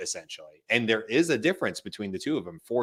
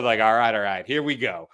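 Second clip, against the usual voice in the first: lightly imitated actor's catchphrase start; a hint of an impression, starting up the story; Matthew McConaughey. Retelling the voice assistant's impression, lightly imitating it. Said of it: "We'll do Matthew McConaughey".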